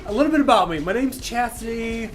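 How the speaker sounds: put-on dating video girl. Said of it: "video profile where that girl was crying".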